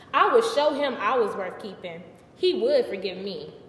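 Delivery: lightly theatrical, defensive storyteller; a woman recounting her scandal with a touch of sass; Bathsheba telling her story. Acted. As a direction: set the record straight for your audience. Performs Bathsheba monologue.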